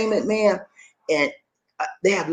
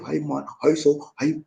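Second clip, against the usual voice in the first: lightly imitated Bahamian accent, softer; a hint of a thick Bahamian accent; 5 dB quieter than usual. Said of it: "deep, thick Bahamian, Bahamian accent".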